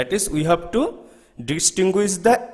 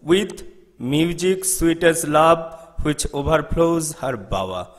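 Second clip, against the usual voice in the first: reciting verse. Shown as a demonstration. Teacher reads the poem's last line aloud, gently recited. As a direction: read the line out as poetry, a touch sung. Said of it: "and here the last line is".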